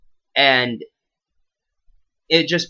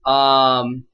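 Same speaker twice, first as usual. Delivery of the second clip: loud mic hiss; 2 semitones higher, slower than usual. Real, not acted. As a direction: voice under a heavy background hiss. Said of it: "sorry for the hiss".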